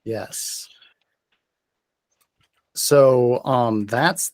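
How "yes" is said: hushed, whispered approval; whispered yes. Real, not acted. Game master approving a player's bond, whispered. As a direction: whisper it, very soft.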